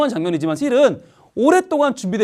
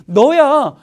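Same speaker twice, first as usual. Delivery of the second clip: calling out; 7 semitones higher, 6 dB louder, much slower than usual. Real, not acted. Preacher calling out to the children, loud and high. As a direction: point at them and call. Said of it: "calling out the children".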